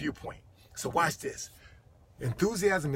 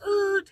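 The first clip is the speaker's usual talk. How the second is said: screeching brakes; 8 dB louder than usual. Retold or imitated. Imitates brakes screeching on people.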